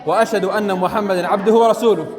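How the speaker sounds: steady, formal recitation; teacher reciting the post-wudu supplication. Shown as a demonstration. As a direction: recite it like a prayer. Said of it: "ماذا يقول بعد الوضوء؟".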